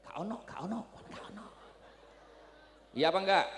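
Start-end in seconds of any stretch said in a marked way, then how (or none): 0.0-1.5 soft, muttered no; a hint of a cold dismissal; dismissive brush-off. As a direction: wave the poor man off quietly. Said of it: "Datang si kaya, datang model seperti ini".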